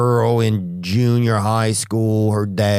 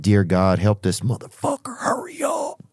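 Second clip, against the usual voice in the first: half-hearted prayer turning impatient; pray, then snap hurry up in a whisper; mock prayer. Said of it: "You're like".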